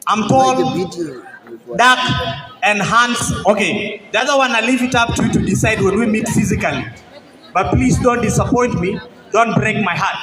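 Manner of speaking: measured love-poem recitation to a crowd; spoken word poem. Acted. Poet addresses his future wife, spoken word recitation. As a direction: declaim it phrase by phrase, letting pauses land.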